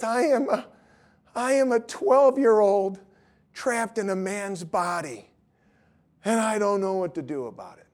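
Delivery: imitating a tearful student; retold weeping. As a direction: confess it as if near tears, lightly acted. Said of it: "Martin starts to weep".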